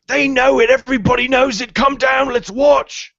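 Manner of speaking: very high, loud joyful calling; a different voice shouting from the back, thrilled; second excited voice. Acted. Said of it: "another voice can be heard from behind him".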